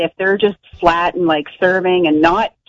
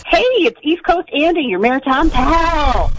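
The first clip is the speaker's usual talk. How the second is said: hearty greeting; 7 semitones higher than usual. Real, not acted. East Coast caller introducing himself to the radio hosts, hearty greeting. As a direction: announce yourself with a big flourish.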